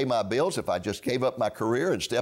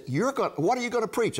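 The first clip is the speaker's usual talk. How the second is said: incredulous; 10 semitones higher than usual. Retold or imitated. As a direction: ask as if you can't believe your ears. University president hears surprising news.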